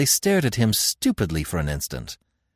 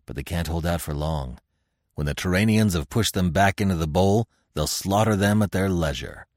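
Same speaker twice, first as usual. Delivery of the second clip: a lightly lowered, grim barbarian voice; Conan; 4 semitones lower than usual. Acted. Conan to Devi, grimly sizing up the trapped tribesmen, lightly voiced barbarian. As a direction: grumble it like a restless warrior chief.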